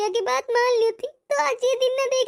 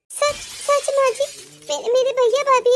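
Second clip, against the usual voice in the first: surprised hope; 3 semitones higher than usual. Acted. Bride hearing her brother and sister-in-law came, surprised hope. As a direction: ask in hopeful disbelief.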